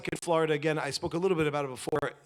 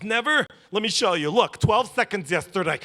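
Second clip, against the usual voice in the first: smart man; 6 semitones higher, 8 dB louder than usual. Retold or imitated. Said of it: "the smart man goes".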